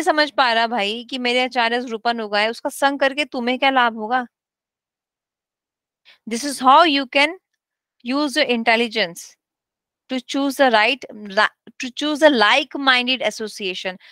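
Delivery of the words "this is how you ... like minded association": slow, deliberate scripture reading; reading aloud. Acted. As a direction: read the teacher's words out slowly. Reads guru's text aloud. (धीरे-धीरे ग्रंथ पढ़ते हुए)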